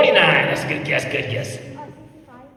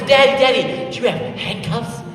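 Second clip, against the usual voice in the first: put-on high, eager little-boy voice; a small child pestering Daddy, pitched up; Michael, excited; 8 semitones higher, 4 dB louder than usual. Son asking his policeman dad about handcuffs, excited. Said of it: "Michael got so excited".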